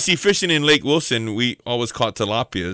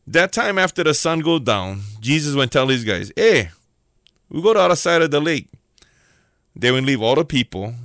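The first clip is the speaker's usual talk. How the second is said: lively local Hawaiian pidgin narration; Hawaiian pidgin storytelling. Acted. Preacher retelling the boat story to church, in Hawaiian pidgin.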